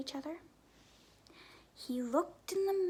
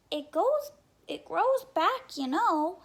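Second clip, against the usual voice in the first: higher, louder little duck voice; 4 semitones higher, 8 dB louder, slower than usual. Acted. Little duck reassures sheep, high and bright. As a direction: chirp it out like a small duck.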